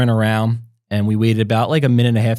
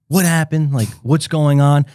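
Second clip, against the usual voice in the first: alarmed; 4 semitones higher, 3 dB louder than usual. Retold or imitated. Finds wife and baby crying.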